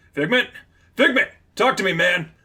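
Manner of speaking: high, loud shout for a friend. Acted. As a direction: yell to a partner who won't answer. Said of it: "Slipstream shouted".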